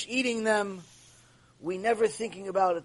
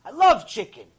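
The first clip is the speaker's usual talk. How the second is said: gushing chicken lover; 5 semitones higher, 10 dB louder than usual. Retold or imitated. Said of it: "And one of the guys said".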